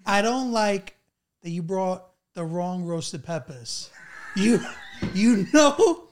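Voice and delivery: put-on scolding aunt in thick Long Island accent; Long Island auntie, slow and fed up. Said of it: "channel your Long Island accent".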